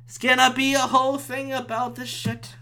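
high, strained whine; whiny exasperation. Real, not acted. Podcaster dreading a police call, high exasperated whine.

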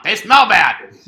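high, loud, slow silly voice. Pretend. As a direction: say it like a goofy kid.

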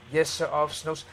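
softly spoken, deferential reply; soft answer. Acted. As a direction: answer the officer gently and submissively. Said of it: "Give that soft answer".

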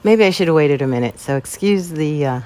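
a little out of breath after exercise; shallow breathing. Real, not acted. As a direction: talk while catching your breath, winded. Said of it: "I am breathing hard".

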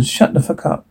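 a whispered menacing order; whispered threat. Acted. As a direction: whisper it right in his ear. Gangster silences the man.

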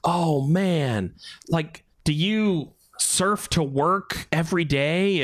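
slow, slightly awestruck questioner; a hint of naive wonder; lightly voiced awed relative. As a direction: imitate a gullible Midwesterner asking. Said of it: "some people that I would meet".

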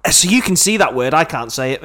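brazen it out to the room; cheeky loud confession; loud blunt admission. Retold or imitated. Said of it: "and I just went".

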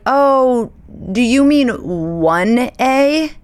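a burst of startled relief; relieved surprise. Retold or imitated. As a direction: catch on all at once that it's not about you. Realizing police want upstairs neighbor.

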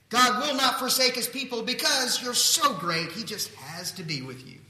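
high, loud gush of flattery, easing at the end; mock gushing. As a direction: gush as if wildly impressed. Mocks what God doesn't say.

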